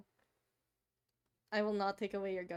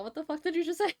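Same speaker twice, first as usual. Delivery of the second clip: mock disbelief; 7 semitones higher, 4 dB louder, faster than usual. Real, not acted. Reacting to chat's pronunciation.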